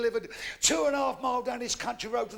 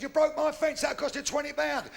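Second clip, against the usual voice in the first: angry fence owner; 6 semitones higher than usual. Acted. Angry fence owner confronts him.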